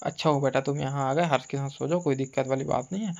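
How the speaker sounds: low, soft reassurance, imitating hosts; polite welcome. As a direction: put on a hospitable front. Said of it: "face to face एकदम स्वागत". (धीमे स्वर में दिखावटी स्वागत)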